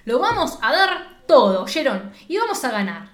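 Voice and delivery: emphatic mock coach speech; coach's pep talk. Shown as a demonstration. Demonstrating the coach's speech to the players, pep talk. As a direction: fire up the team, each phrase punched.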